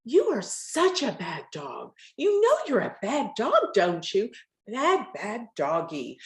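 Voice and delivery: scolding the dog, pitch swooping up; harsh scolding tone. Shown as a demonstration. Talking to a bad dog, scolding tone. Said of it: "But when you do it saying".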